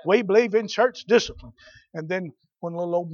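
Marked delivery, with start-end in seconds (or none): 0.1-1.5 louder, emphatic retold assent; mock-hearty, punched-out yes to the preacher; eager agreement. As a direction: imitate a parent who is all for it. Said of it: "They were all for it".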